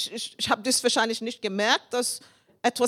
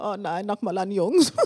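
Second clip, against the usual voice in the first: disappointed; 3 semitones lower than usual. Retold or imitated. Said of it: "Sie war ganz enttäuscht".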